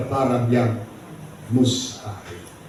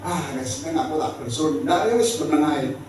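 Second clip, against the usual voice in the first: dismissive mock quote; 3 dB quieter, faster than usual. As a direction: imitate someone who can't be bothered. Voices a half-hearted believer giving up. (menirukan orang yang masa bodoh)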